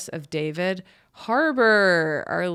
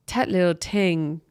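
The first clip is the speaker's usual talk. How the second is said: light Jamaican-style lilt; a hint of Jamaican patois; mock Jamaican accent. Teasing the singer, lightly Jamaican. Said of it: "I kinda sound like, uh, Jamaican".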